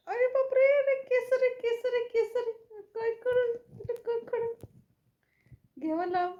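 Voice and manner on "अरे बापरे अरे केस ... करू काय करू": alarmed cries. Real, not acted. Puppy tangled in hair, alarmed.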